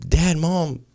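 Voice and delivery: mock kid voice, drawing out the news; tattling kids. Kids report their sister's cussing to parents, tattling imitation. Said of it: "so all the kids come".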